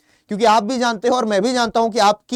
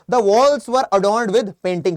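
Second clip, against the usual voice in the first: slow model sentence; 3 dB louder, much slower than usual. Shown as a demonstration. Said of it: "reading example sentence".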